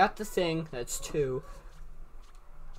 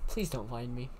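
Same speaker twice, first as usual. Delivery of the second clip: whispering while hiding; 5 semitones lower, 7 dB quieter than usual. Real, not acted. Hiding from a ghost.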